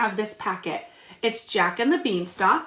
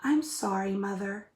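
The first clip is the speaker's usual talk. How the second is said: put-on sorry boy; 6 dB quieter than usual. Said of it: "said Jack".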